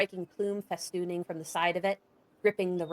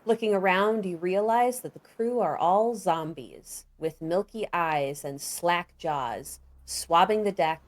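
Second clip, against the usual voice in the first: game master's descriptive narration; measured storyteller's delivery; scene setting; 5 dB louder than usual. A narrator's reading. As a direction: paint the scene, stressing the vivid words.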